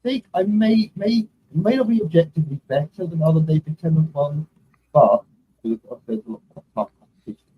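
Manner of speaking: muffled, too far from the mic. Real, not acted. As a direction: speak muffled, like through a hand. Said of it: "you're a bit muffled".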